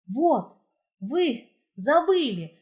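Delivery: breathless, gasping between words; panting after running downhill; out of breath. A narrator's reading. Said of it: "задыхаясь". (запыхавшись, задыхаясь)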